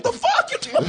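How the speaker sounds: squeaky high, laughing disbelief; laughing high-pitched mock outrage. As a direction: jump way up into a laughing shocked squeal. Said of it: "She's like".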